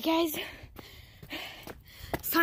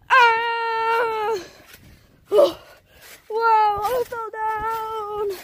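tripping and falling; 6 semitones higher, 6 dB louder, much slower than usual. Real, not acted. Falls on trampoline.

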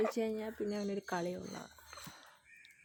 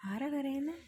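higher, rising question to a dog; coaxing pet talk; 5 semitones higher than usual. Real, not acted. Owner asking Chikku about the crying puppy, coaxing. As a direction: ask the pet with a raised, rising lilt.

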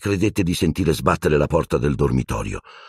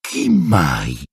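broken voice; 3 dB louder than usual. Acted. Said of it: "disse con voce spezzata".

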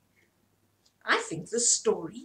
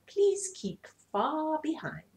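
a touch of lofty peacock; haughty; 5 semitones higher than usual. Acted. Peacock telling everybody to stay back, mildly haughty. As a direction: say it with nose in the air. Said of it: "still the haughty fellow".

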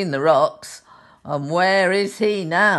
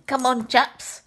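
higher, eager little bear call; brave little bear; 10 semitones higher than usual. Acted. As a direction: urge the others on brightly. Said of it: "And he's saying".

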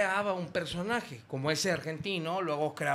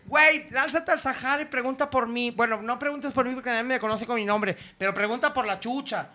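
higher camp voice inviting; camp invitation; 6 semitones higher than usual. Retold or imitated. Drag performer invites the caller to the club, camp. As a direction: invite him over, all camp. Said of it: "Y me dice".

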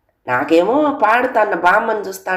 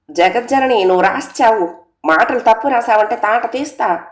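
mother scolding shout; 4 semitones higher than usual. Acted. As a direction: threaten the daughter half in jest, raised voice. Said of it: "అంటా అరిచింది మా అమ్మ".

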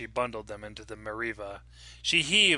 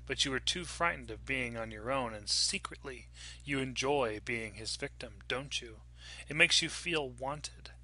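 quiet, cold ghost voice; soft ghostly voice; 4 dB quieter than usual. Acted. Ghost speaks to Lily.

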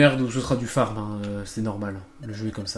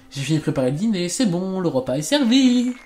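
calling to dinner; 4 semitones higher than usual. Acted. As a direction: call everyone in, pitch rising as you go. Acted dinner call, rising steadily.

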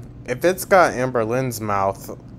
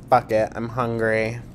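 mocking vlogger voice. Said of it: "but then I said".

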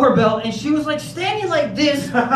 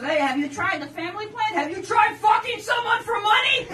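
salesman pitch; 10 semitones higher than usual. Retold or imitated. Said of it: "he goes".

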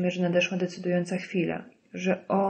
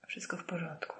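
bardzo cichy, bezdźwięczny szept; 14 dB quieter than usual. A narrator's reading. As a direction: odpowiedz ledwo słyszalnym szeptem. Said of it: "szepnęła Grace". (słabe, wyszeptane uspokojenie)

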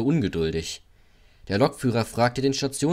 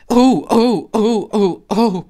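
high, loud shrieks of alarm; piercing repeated squeals; screeching wagons; 12 semitones higher, 10 dB louder, slower than usual. A narrator's reading. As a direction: screech like startled freight wagons. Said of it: "kreischten die Güterwagen".

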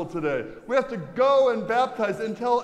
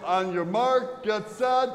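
race starter call. Shown as a demonstration. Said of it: "Try it again".

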